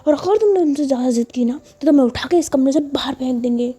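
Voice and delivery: sharp, high-pitched threats; a hammed-up angry warning; angry scolding. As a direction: scold her into silence. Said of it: "तो बोलती".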